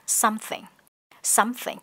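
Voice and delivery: SOMETHING with a clear th in the middle; middle th sound. Shown as a demonstration. Teacher models the word, clear th in SOMETHING. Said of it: "có âm th ở giữa này".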